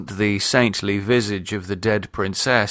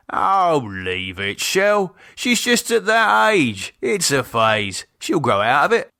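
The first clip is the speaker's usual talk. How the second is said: higher, easygoing husband's voice; calm her down; soothing husband; 5 semitones higher than usual. Acted. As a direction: brush it off lightly. Keith soothing wife.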